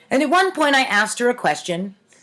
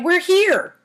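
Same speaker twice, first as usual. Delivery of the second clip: much higher, excited announcement; excited cry; 8 semitones higher than usual. A narrator's reading. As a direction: jump up thrilled to arrive. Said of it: "Lynn jumped up and cried".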